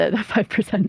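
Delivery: chuckling and laughing through the words. Mentioning the five percent to others, laughing while talking. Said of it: "why are you laughing when you say five percent?".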